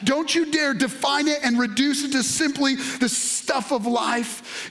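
driving sermon delivery, key words stretched; impassioned preaching. Acted. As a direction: preach it with rising fervour and emphasis. Preaches in full flow.

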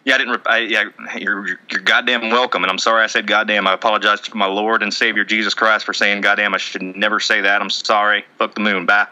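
lightly voiced Southern good old boy; rambling Southern apology, played for laughs; Colby Rasmus. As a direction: play an apologetic backwoods guy, loosely. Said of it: "Thank you, Colby".

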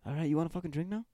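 laid-back mock Aussie bloke; light put-on Australian accent. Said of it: "talk like a fucking Australian".

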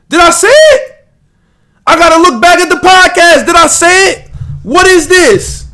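high, loud, frantic questioning; panicked disbelief. Real, not acted. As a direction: panic as if you just blew it. Panics he gave picks away.

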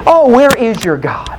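mock-innocent taunting question; sarcastic jibe. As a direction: imitate a prophet needling his rivals. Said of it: "He got a little sarcastic".

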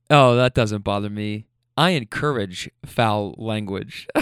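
low, gently egging them on; gentle instigator. Retold or imitated. Reassuring a swearing passenger, as a gentle instigator. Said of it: "kinda like this little gentle instigator".

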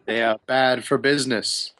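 lightly voiced patronising wizard; condescending wizard. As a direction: set out the job like an aloof wizard. GM voices wizard Hamun Kost.

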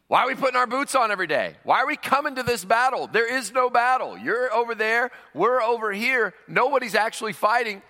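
giant mocking the idle troops; Goliath taunting.

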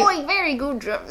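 laughing, hammed-up British-Australian accent; Australian-Liverpool accent. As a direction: overdo a muddled Scouse-Australian accent. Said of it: "kind of a Liverpool thing".

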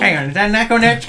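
loud startled recognition; surprised. Acted. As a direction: realise who it is. Recognising the boss's voice.

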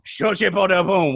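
made-up French, said slowly; slow pseudo-French gibberish with a French accent; mock French. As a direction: toss out a fake French phrase. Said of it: "which is French for".

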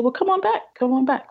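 retold doctor's high-pitched coaxing; encouraging welcome back. Doctor to relapsed patient, encouraging.

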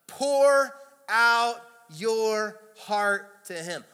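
"Pour out your heart" word by word, loud and high; very slow, punched "Pour out your heart to him"; emphatic preaching. Real, not acted. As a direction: hit each word of "Pour out your heart" slowly, with full force. Preacher hammers the verse word by word.

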